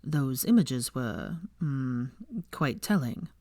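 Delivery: slow, low, amused drawl; lightly voiced smug young man, savouring it; lightly voiced amused Malfoy. A narrator's reading.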